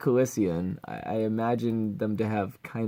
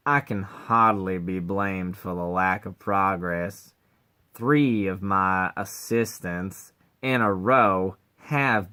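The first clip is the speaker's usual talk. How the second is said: Cleveland voice; 4 semitones lower than usual. Acted. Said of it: "sound like Cleveland from Family Guy".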